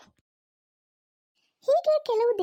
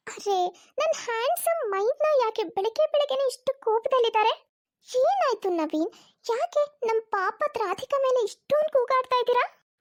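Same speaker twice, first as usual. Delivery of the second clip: higher, sugary flirtatious in-law; playful mock concern, higher pitched; coy schemer; 5 semitones higher than usual. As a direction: sweet-talk him while stirring trouble.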